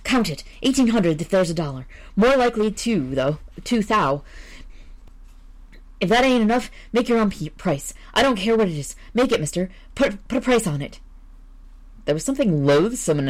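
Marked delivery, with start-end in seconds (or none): 0.0-11.0 stammering, panicky voice pitched higher; a frightened man begging, tripping on his words; terrified visitor. Acted. Visitor pushing money on editor.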